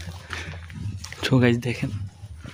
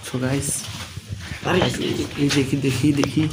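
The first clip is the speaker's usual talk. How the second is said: speaking softly; 7 dB quieter than usual. Real, not acted. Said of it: "এই আস্তে কথা বলো।".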